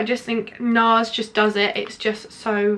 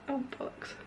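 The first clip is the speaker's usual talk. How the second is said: a breathy curse under her breath; annoyed whispered swear; 3 semitones higher, 17 dB quieter than usual. Real, not acted. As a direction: swear to yourself, barely voiced. Makeup spilled on her bracelet.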